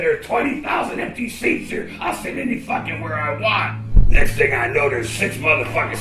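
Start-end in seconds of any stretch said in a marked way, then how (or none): 0.0-3.8 retold yell at the usher, rough and raw; angry shout. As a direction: shout him down over the empty seats.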